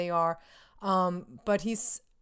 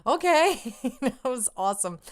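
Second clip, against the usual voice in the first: higher, louder excited reply; awestruck kid; 4 semitones higher, 4 dB louder than usual. Retold or imitated. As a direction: imitate a thrilled kid saying yes.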